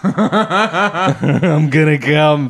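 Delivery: laughing joy. Real, not acted. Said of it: "the joy on your face saying it".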